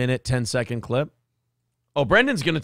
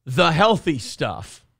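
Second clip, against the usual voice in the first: slow, deliberate mock term; mock-serious quoting; slower than usual. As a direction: spell it out slowly, as if a technical term.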